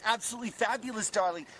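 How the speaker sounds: lightly camp, lilting repeat. Pretend. Man repeating his new voice, lightly camp. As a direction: say it again with a hint of camp flair. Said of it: "I don't talk like that".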